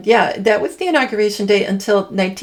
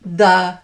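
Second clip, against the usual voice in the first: "The" said alone, punched louder; emphatic the; 4 dB louder than usual. Retold or imitated. Imitating the president's speech, an emphatic the. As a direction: hit "The" hard and let it hang. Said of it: "like that, really emphatically".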